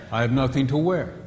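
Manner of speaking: the same words said another way; second reading with a different meaning; other meaning. Shown as a demonstration. The same words said differently, with another meaning. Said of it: "but you mean something different".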